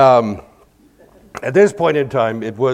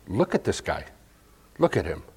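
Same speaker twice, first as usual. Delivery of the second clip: quiet emphasis; 4 semitones lower, 7 dB quieter than usual. Shown as a demonstration. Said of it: "done that with different emphasis".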